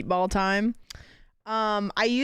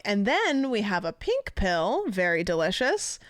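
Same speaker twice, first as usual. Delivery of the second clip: Italian chef; 4 semitones higher than usual. Retold or imitated. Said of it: "as if I'm like an Italian chef".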